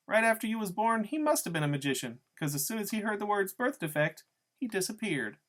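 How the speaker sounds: mean, high-pitched taunting woman; Loretta. A narrator's reading. Narrator voices Loretta's cruel punchline.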